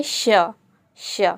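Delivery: "श" sounded alone, then repeated after a pause; letter sound demo. Shown as a demonstration. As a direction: model the "sh" sound in "श" for learners. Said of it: "इसको हम क्या बोलते हैं?".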